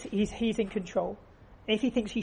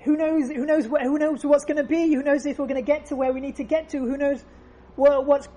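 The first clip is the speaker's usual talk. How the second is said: higher, pressing, anxious questions; nervous flyer pestering the man beside him, higher pitched; agitated passenger; 4 semitones higher, 4 dB louder than usual. Retold or imitated. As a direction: fret at the calm neighbour. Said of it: "The, the agitated guy turns to him and says".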